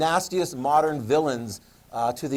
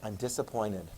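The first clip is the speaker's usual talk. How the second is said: soft, low quiet disappointment; a hint of a let-down parent; mock disappointed parent; 6 semitones lower, 9 dB quieter than usual. Teacher voices parent quietly letting a kid down. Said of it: "They're just like".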